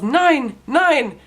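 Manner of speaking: high, loud panicked yell; yelled nine. Retold or imitated. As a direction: shout it at the men, desperate. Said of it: "She yells".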